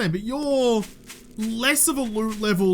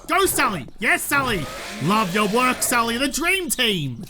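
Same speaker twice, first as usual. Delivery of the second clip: excited cheer for a pet, pitched up. Real, not acted. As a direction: egg your teammate on with delight.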